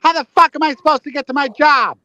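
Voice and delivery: mock outrage at being stuck; mad. Caller ranting to Paul about traffic, acting mad. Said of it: "he doesn't really get that mad".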